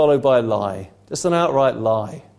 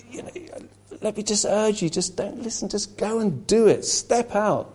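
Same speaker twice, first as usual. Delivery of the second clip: serpent tempting; 3 semitones higher than usual. Retold or imitated. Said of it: "he comes and he says".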